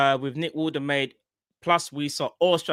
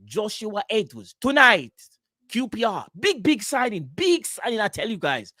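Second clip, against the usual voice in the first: hyped reporter impression; 5 semitones higher than usual. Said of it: "Man will say".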